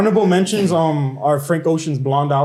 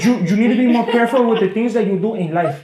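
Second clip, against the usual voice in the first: higher imitation of a Hispanic grandma's accent; mock Hispanic-accented grandma advice, pitched up; 5 semitones higher than usual. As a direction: scold lightly in grandma's Hispanic accent, Y sounding like J. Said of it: "Y is everything is replaced with a J".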